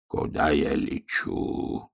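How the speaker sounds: slow, soft voiceless thought; wistful thought. A narrator's reading. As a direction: wonder it quietly in despair. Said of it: "тоскливо думал волк".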